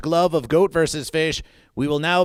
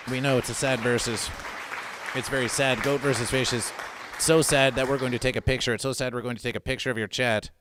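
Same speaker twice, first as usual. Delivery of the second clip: lower, softer hammed-up grief; mock sadness; 8 semitones lower, 4 dB quieter than usual. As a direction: overplay the sorrow. Hammed-up grief over sale.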